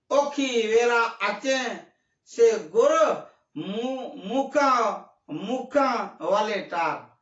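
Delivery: lightly voiced pleading in Kutchi, a little slow; Kutchi quote. Preacher quoting the soul's plea in Kutchi, lightly pleading. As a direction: recite the Kutchi verse in a gentle pleading tone. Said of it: "ऐसा कच्छी में".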